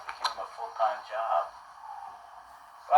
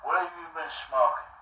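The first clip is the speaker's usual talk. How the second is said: higher-pitched imitation of the grilling homeowner; suspicious homeowner; 5 semitones higher, 5 dB quieter than usual. Homeowner grilling the soaked boy, in a raised mimicking voice. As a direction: ask it up high, mimicking a nosy, baffled man. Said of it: "he still asks me".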